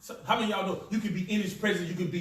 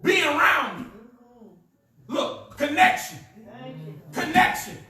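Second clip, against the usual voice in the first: emphatic preaching; 6 semitones higher, 3 dB louder than usual. Real, not acted. Preaches at full force.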